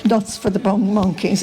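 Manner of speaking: lightly put-on Dublin accent, calling out wares; a hint of a Dublin hawker crying nuts to passers-by; Dublin street seller accent. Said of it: "in her best Dublin accent".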